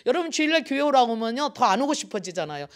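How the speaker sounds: ordinary talk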